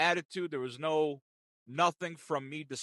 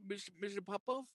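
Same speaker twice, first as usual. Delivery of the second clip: agent voice; 5 semitones higher, 7 dB quieter than usual. Retold or imitated. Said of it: "when she said my name".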